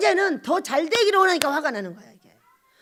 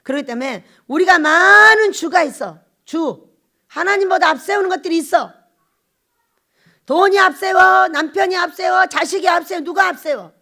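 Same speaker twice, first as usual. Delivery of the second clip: loud, rising sermon cries; a preacher shouting out the idols one by one; fiery preaching; 5 semitones higher, 10 dB louder than usual. Acted. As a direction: hammer each line at the congregation. Preaching at full force.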